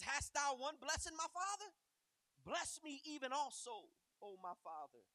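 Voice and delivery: high, loud anguished plea; pleading cry. Acted. Esau begging his father for a blessing, loud high plea. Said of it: "Esau lifted up his voice and he wept".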